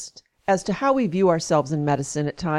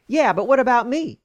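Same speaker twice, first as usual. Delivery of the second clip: snapped; 5 semitones higher than usual. Retold or imitated. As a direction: snap back defensively, mock-indignant. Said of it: "She snapped at me".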